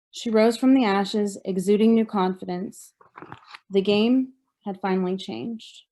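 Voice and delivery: measured recital of a poem, phrase by phrase; poetry reading. Acted. Survivor reading poem from own book, measured poetry reading. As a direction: read your poem out with deliberate pauses.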